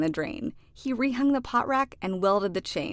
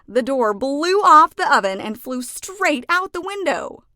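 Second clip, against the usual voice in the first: louder and higher, breathless telling; storyteller swept up in the blast; excited narration; 6 semitones higher, 9 dB louder than usual. A narrator's reading. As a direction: tell it like the chaos is happening now. Explosion aftermath narrated.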